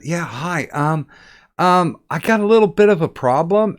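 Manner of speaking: put-on girl caller. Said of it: "a girl called up and she said".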